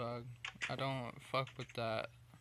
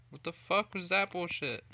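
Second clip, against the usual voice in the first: angry outburst; 3 semitones higher, 5 dB louder than usual. Real, not acted. Sudden glitch angers gamer.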